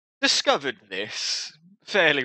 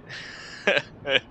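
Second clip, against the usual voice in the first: breathy, voiceless acted chuckle; sardonic chuckle; 4 semitones higher than usual. Warrior jokes about going hollow, sardonic chuckle. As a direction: chuckle at a grim joke in character. Warrior laughs at own grim remark.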